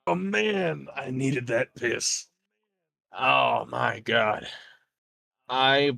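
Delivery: a hint of a relieved raider sighing after a long piss; lightly voiced thug, dragging out the relief. GM voicing a relieved raider to the players, mild drawl. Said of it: "He just goes".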